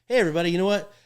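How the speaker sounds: loud, high rodeo announcer call; hammed-up announcer hyping the crowd; arena announcer joke. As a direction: belt it to the crowd like the arena mic. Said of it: "I say this one joke".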